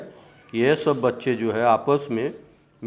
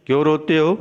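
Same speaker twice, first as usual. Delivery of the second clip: put-on raised voice, a teacher's yell at crying kids; shouting; 3 semitones higher, 5 dB louder, faster than usual. Night queen shouting at crying children, loud. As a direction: call out sharply over the crying. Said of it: "चिल्लाकर बोलती है".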